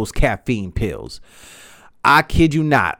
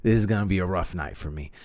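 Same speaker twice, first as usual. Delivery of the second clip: whispered dread; 6 semitones lower, 9 dB quieter than usual. Retold or imitated. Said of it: "I was like".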